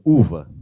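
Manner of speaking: "uva" loud and low with puckered lips; "uva" demonstrated loudly with exaggerated lip-rounding; pouted vowel. Shown as a demonstration. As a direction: push the rounded "u" of "uva" out through a pout. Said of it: "Ó o biquinho".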